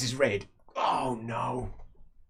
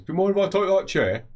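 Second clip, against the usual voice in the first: higher polite voice; 11 semitones higher, 8 dB louder than usual. Acted. Stranger asking for chair.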